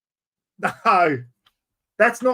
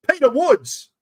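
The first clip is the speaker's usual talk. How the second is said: announcing winner; 7 semitones higher, 5 dB louder than usual. Real, not acted.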